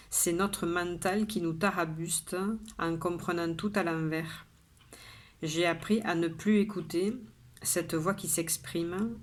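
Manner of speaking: measured poem reading with pauses between lines; poem recitation. Acted. Poet shares today's poem with viewers, measured recitation. Reads the poem a third time.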